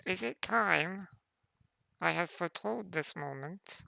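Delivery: a lightly voiced old prophetess; frail old voice.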